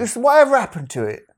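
high puzzled fan voice; imitating a fan. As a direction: ask like a disappointed fan. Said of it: "That's what he'd say".

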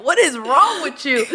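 slow, high, incredulous; mock baffled husband. Husband reacting to her rant, slow high incredulous mock. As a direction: act stunned at her intensity. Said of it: "He's like".

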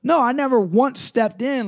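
a hyped fighter brushing off the ref; excited protest. Retold or imitated. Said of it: "He's like".

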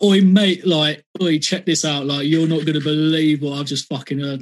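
excited London lad voice; lightly thickened London accent, calling to a mate; classic London accent. Retold or imitated. Teenage Londoner telling mates about new music, excited London accent. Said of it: "classic London kind of accent when I was younger".

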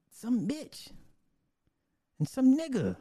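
high, strained mock yell, kept soft; Edward Anderson yelling. Streamer mimicking an always-angry man's rants, mock yelling. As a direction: imitate an angry rant in a high, held-back voice. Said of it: "always yelling".

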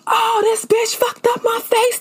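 put-on high, whining upset girl; whiny complaint. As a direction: complain that she ruined your face. Voicing the beaten girl.

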